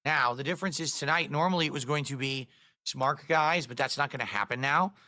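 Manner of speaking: sore, swollen-throat voice; swollen tonsils voice. Real, not acted. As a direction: speak through a swollen throat. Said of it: "sounds like maybe you didn't hit".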